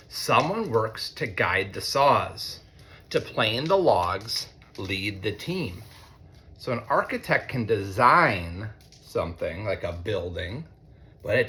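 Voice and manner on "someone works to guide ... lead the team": lightly sing-song storybook reading; reading to children. A narrator's reading. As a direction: read it like a picture book to a class. Reads picture book to students.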